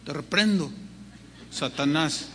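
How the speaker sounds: half-joking alarm at the voice; mock alarmed rebuke. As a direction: jump up in pitch like catching the devil.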